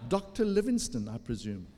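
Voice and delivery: attempted American accent, rising then dropping. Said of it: "how to do that with American accent".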